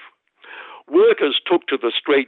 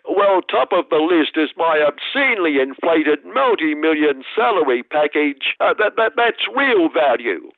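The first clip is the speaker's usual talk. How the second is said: lightly voiced smug boss, a touch higher; self-satisfied chief executive answering the interviewer; Brad Banducci; 4 semitones higher than usual. Chief executive smugly answering the interviewer about value.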